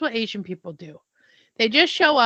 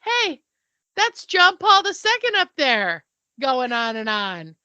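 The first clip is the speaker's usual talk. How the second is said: excited to aunt; 3 semitones higher, 4 dB louder than usual. Retold or imitated. Telling her aunt the Pope is onstage, excited. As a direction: lean in to tell your aunt the news.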